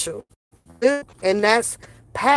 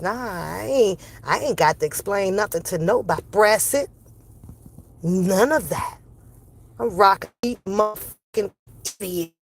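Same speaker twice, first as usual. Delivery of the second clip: usual speaking voice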